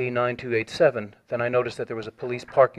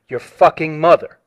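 slower, louder mock-aggressive insult; aggressive repeat; 4 semitones higher, 8 dB louder, slower than usual. Caller retelling the man's second, hostile repeat, louder and slower. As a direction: lean into it like a threat, dragged out. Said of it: "he repeated more aggressively".

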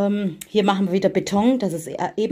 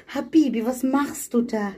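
high-pitched, drawn-out coo to a pet; pet talk; 6 semitones higher than usual. Real, not acted. Speaker to her animal, high pet talk.

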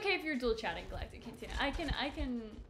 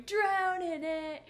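slow, higher, louder Squidward voice stretching "Drone in it"; Squidward saying drone in it; 7 semitones higher, 5 dB louder, much slower than usual. Retold or imitated. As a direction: drag out "Drone in it" as a nasal cartoon squid. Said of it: "it sounds like a British person saying".

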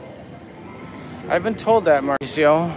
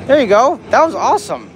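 shrieking jackpot winner; 7 semitones higher, 5 dB louder than usual. Real, not acted. Big win on slot bonus.

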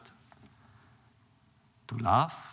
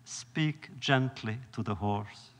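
softer, slow and gentle; gentle instruction; 2 semitones lower, 5 dB quieter, slower than usual. Retold or imitated. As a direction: ease the coachman down kindly. Rebbe softly instructs the coachman.

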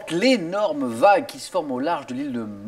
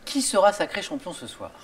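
game show host. Acted. Host teases before break.

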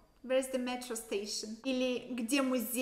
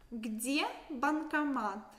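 Где банкомат said slowly, stress on где; slow repeat; slower than usual. Shown as a demonstration. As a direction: spell Где банкомат out for learners. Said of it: "Where's the A T M machine?".

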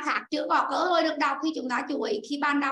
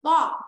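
"Bo" punched out louder, on its own; stressed syllable alone; 5 dB louder than usual. Shown as a demonstration. Teacher isolates the stressed syllable for students, "Bo" punched. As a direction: hit "Bo" hard as the stressed syllable. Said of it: "trong âm nó rơi vào âm tiết thứ ba".

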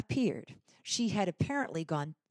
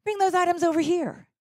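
high, loud command; demanding; 12 semitones higher, 9 dB louder, faster than usual. Retold or imitated. Kind shopper ordering the partner over, loud and commanding. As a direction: take charge of the checkout line. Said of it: "she demanded".

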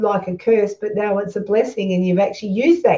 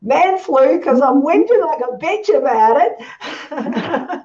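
laughing mock whine; 3 semitones higher, slower than usual. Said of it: "I might go over there today and say".

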